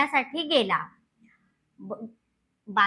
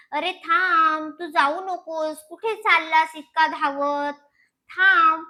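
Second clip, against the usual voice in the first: calling after dog; 2 semitones higher than usual. Acted. Ramu calls after running dog.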